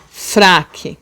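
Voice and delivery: FRAQUE slowly split as fra-que; separated syllables. Shown as a demonstration. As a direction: sound out FRAQUE in two syllables. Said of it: "também falamos separados".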